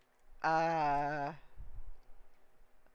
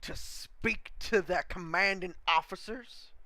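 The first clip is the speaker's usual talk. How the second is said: gruff commander; 14 dB louder than usual. Acted. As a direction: bark it down at the new boy like a drill sergeant. GM voices the commander.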